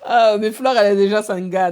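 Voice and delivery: amused gossip, laughing. Real, not acted. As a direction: giggle out the teasing question. Live host laughing at gossip.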